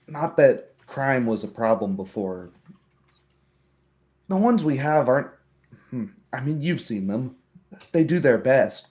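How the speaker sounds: lightly voiced young man, hesitantly objecting; young townsman. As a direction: play a worried townsman reluctantly facing reality. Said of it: "the young man who put your splint on goes".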